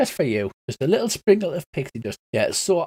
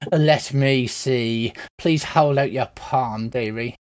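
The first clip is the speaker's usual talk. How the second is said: put-on old woman; 3 semitones lower, slower than usual. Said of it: "that old woman thing".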